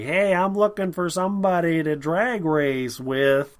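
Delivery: theatrical mock line reading, slow and high; Harrison Ford. Mocking the worst actor in the movie, theatrical impression. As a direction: ham it up like a stagey bad actor. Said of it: "Harrison Ford's just like".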